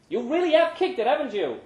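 lightly voiced friend, impressed; surprised Pancho. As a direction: sound genuinely surprised.

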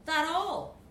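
loud, high curt Scouse question; clipped Liverpool accent. Acted. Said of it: "was a Scouser".

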